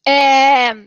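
recovering from choking on water; choking on a drink. Real, not acted. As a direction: voice still catching after choking. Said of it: "eu engasguei aqui com a água".

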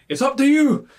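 shouted high and loud; excited shout. Acted. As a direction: call it out cheerfully. GM voicing character quote.

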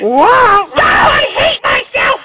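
Donald Duck impression. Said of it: "Do your Donald Duck impression".

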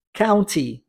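county with a clear T sound. Shown as a demonstration. Teacher spelling it out, county with a clear T. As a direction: say county with the T spoken. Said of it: "E se escreve com o T".

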